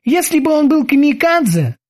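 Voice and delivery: high-pitched careful boatswain voice; cautious. A narrator's reading. Kiki objects to his captain's theory, cautious. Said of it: "осторожно заметил Кики".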